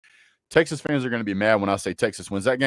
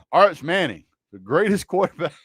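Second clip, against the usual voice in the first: mock praise; 6 semitones higher than usual. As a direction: hype him up with a smirk you can't hide. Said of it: "I can't even say it with a straight face".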